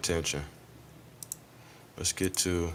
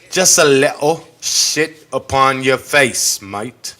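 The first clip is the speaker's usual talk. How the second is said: mock British accent; 2 semitones higher, 4 dB louder, slower than usual. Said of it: "I don't know what accent that is".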